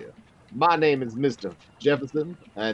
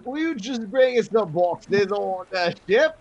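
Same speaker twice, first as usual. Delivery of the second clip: put-on London accent, pitched higher; hammed-up south London voice; playing a sailor in a shaky London accent; fake southern London accent; 8 semitones higher than usual. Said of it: "accept that accent as being authentic".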